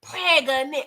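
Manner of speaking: a breathy stage whisper for the big reveal; dramatic whisper. Real, not acted. Telling viewers Monet's news, whispering the shocking word. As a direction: whisper it like juicy gossip. Dramatic aside about the pregnancy.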